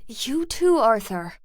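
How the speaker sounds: loud, high command to stop; stern shout. Acted. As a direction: cut the quarrel short, sharply. Breaking up the fight.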